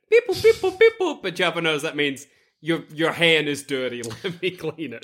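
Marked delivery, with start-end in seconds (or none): 0.1-1.2 high beeping droid chatter; droid beeps. Acted. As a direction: beep it like R2-D2. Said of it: "I say".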